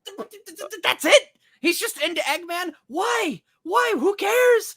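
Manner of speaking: high, loud stammering disbelief; incredulous rant. Real, not acted. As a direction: splutter in outrage. Ranting in disbelief.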